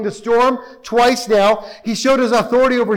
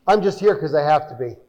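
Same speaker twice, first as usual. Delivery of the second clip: low, quick, half-hearted devotion; mock-loving husband; 6 semitones lower, faster than usual. Husband to his wife out of duty, mock-loving. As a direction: say it like a dutiful husband, pitched low. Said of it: "very lovingly and says".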